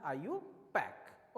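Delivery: आईयूपैक said as one word, eye-you-pack; आईयूपैक pronounced as one word, not letters; correct pronunciation. Shown as a demonstration. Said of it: "pronunciation होता है वो होता है".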